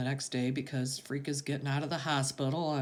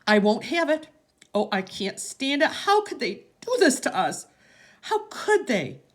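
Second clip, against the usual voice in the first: much higher and louder, breaking into sobbing pleas; tearful yell fading to despair; 13 semitones higher, 7 dB louder than usual. Acted. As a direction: shout then crumble into anguish. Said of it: "Graham yells".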